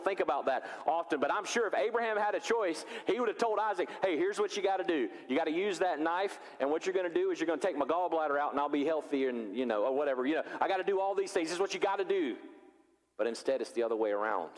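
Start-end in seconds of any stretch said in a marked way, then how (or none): 4.0-12.4 playful father voice. Pretend. Abraham voiced giving instructions.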